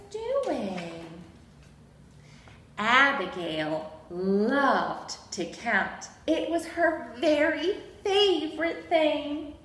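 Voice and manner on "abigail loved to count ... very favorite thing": slow, emphatic picture-book narration; reading to children. A narrator's reading. Storyteller introduces Abigail's love of counting, reading to children. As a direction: read it to small children, stretching key words.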